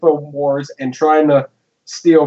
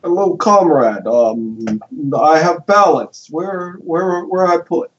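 mock Russian accent; 3 semitones higher, slower than usual. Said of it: "I really can't do a Russian accent".

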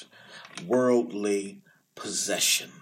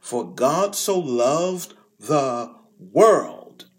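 slow and louder, "so" stressed; proclaimed; 2 semitones higher, 6 dB louder, much slower than usual. Shown as a demonstration. Preacher voicing Jesus' radical words, slow and ringing. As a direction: ring out "For God so loved the world" with weight. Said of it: "When Jesus utters the words".

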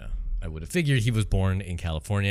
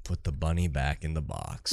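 slow, lower imitation of the Southern delivery; imitated Southern line; 5 semitones lower, 4 dB quieter than usual. Co-host echoes the hero's line, imitated Southern accent. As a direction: mimic the Southern movie line, drawn out.

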